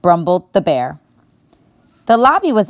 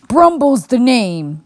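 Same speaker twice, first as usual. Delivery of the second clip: put-on slow old bear; 6 semitones higher, slower than usual. A narrator's reading. Bear introduces himself.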